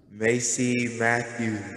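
slow, drawn-out echo voice; echo effect. Pretend. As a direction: say it like it echoes in a hall. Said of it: "here comes the echo effect".

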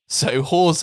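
"horse" as "HOZE", rhyming with rose. Shown as a demonstration. Host demoing the swap, horse said like rose. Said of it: "pronounced like rose".

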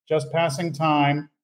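slow, calm, unbothered swordsman; cool swordsman. Retold or imitated. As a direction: say it bored, not even looking. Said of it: "He's just going".

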